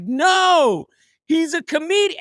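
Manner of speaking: high-pitched mock yell, no real volume. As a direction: imitate a woman yelling a correction. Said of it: "they're yelling it".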